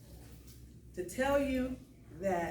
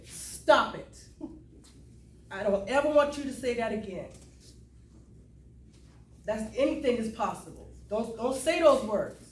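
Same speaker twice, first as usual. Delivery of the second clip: imitated firm rebuke. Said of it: "she said".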